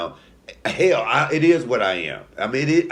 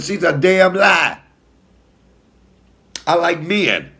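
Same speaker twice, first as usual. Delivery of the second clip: sassy retort; 8 semitones higher, 7 dB louder, slower than usual. Retold or imitated. Retold sassy reply to police.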